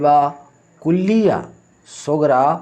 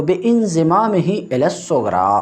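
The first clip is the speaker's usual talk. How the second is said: fast reading of the Arabic phrase; reciting the text at a brisk clip; quick textbook recitation; 2 semitones higher, faster than usual. Shown as a demonstration. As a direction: rattle off the quoted rule.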